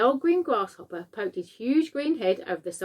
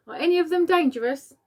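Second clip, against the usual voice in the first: put-on much higher, calling up to the boy; police chief shouting upward; shouted; 8 semitones higher, 5 dB louder than usual. A narrator's reading. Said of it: "shouted the chief of police".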